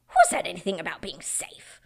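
sharp whispered question; hushed Beaver. Acted. Mister Beaver answering Susan, hushed whisper. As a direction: whisper it like a warning. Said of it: "said Mister Beaver".

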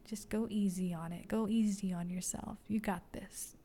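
soothing tone to her own name; gentle self-talk. Retold or imitated. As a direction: comfort yourself gently. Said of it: "I just started to say".

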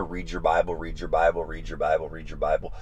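broken record nagging. Retold or imitated. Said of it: "like a broken record".

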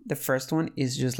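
usual speaking voice

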